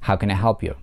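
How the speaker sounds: how can I help you falling from help; falling tune, stress on help. Shown as a demonstration. Teacher models a wh-question falling. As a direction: press help then fall. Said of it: "под ударением ... глагол help".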